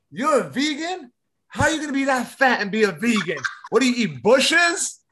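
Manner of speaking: high-pitched, incredulous mock yell. Comic yelling at a stranger outside the club, imitated mock yell. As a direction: imitate a comic heckling someone, voice jumping up high. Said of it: "he was yelling at somebody".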